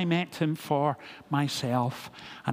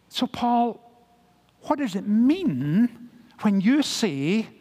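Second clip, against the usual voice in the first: higher-pitched, disbelieving challenge; incredulous response; 5 semitones higher than usual. Acted. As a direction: question Paul as if it makes no sense. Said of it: "that was the immediate response".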